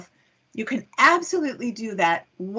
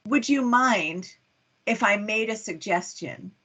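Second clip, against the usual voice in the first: polite. Shown as a demonstration. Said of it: "if someone would say".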